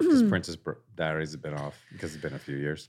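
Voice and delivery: put-on lightly done Irish accent. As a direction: slip into a loose Irish accent. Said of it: "That's my Irish accent".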